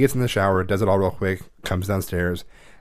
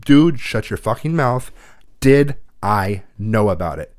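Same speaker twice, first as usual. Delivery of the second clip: slow, loud, cutting him off cold; stern shut-down; 4 dB louder, slower than usual. Retold or imitated. A mother silencing her son's excuse, slow and loud. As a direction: clamp down hard on the excuse.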